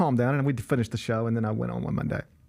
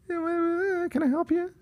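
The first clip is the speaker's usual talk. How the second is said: bored agent. Retold or imitated. Imitating agent answering the call.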